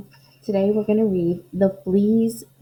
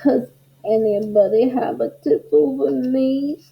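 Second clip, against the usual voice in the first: garbled plea; 4 dB louder than usual. Acted. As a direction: beg like a tiny flea. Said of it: "his garbled plea".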